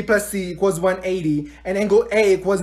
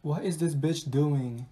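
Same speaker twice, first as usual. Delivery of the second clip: low, slow, very soft grumble; muttered aside; 6 semitones lower, 13 dB quieter, slower than usual. Acted. Student grumbling to herself about a classmate, muttered low. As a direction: mutter it slowly under your breath.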